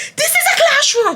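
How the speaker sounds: acted angry teacher voice, very high. Telling listeners how a teacher went off on the class, retelling an angry teacher. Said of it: "He went off on us".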